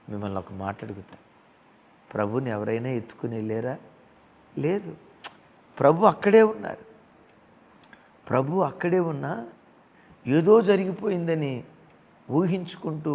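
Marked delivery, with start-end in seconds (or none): 4.6-13.1 emphatic declaration. Real, not acted. Preacher declaring forcefully.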